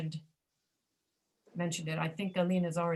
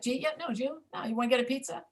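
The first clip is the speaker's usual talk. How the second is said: fast casual American; 4 semitones higher, faster than usual. Retold or imitated. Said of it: "Does that sound familiar".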